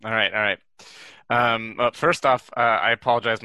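hoarse from a sore throat. Real, not acted. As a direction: speak through a sore throat. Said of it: "I have a bit of a sore throat".

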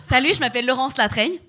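se présenter avec une pointe d'accent français; léger accent français, un peu appuyé; accent français de France. Shown as a demonstration. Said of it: "qui a un accent français". (se présenter à la française)

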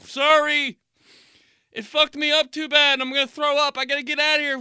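very high, loud fake distress; hammed-up gagging panic; overwhelmed son. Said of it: "I'm just like".

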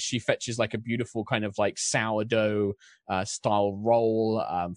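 usual speaking voice

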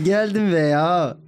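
"Geldim veya" iyice uzatılarak, yüksek perdeden; "veya" sözünü cümle bitmiş gibi uzatıp havada bırak; havada biten şive. Retold or imitated. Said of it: "Ve ses tonu da böyle". (şive taklidiyle uzayan, havada kalan "veya")

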